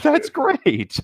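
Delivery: high, loud, gleeful; delighted amazement. Real, not acted. Picturing a lemon shark shoving a tiger shark, delighted. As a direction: marvel at it out loud. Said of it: "Are you serious?".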